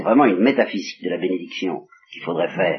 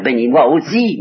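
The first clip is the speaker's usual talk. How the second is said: demande amère et appuyée, un peu plus haute; supplique amère; 4 semitones higher, 4 dB louder than usual. Acted. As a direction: supplier avec force et amertume. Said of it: "avec beaucoup de force et d'amertume". (Ésaü supplie son père avec amertume)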